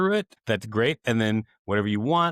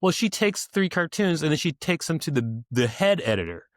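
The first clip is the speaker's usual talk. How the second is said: explaining friend; 3 semitones higher than usual. Retold or imitated. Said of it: "And she was like".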